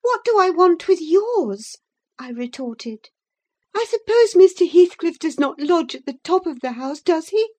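lightly voiced prim visitor demanding his supper; indignant gentleman. Visitor to the old servant, mildly haughty demand. Lockwood retorting.

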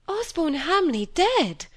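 slow, high, stunned disbelief; awed surprise. A narrator's reading. Cynthia hearing of the death, in awed surprise. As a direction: let the name hang in shock. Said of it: "said Cynthia in awed surprise".

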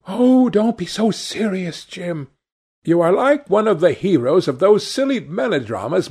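a hint of a dreamy girl in love; lightly voiced girl. A narrator's reading. Sibyl pleads, happy.

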